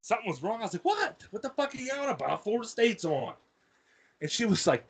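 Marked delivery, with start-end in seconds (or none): 0.8-3.3 high-pitched, exasperated holler back without real volume; retold annoyed reply. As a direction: act out being bothered mid-game. Answers mom's call during football game.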